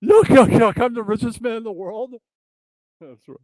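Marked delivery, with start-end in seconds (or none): 0.0-2.1 high goofy puppet voice; yuck-yuck puppet boast, pitched way up; Jesse P S. Acted. Host mimics puppet playing the richest man, goofy puppet voice. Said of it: "if he was Jesse P S, that's how he would say it".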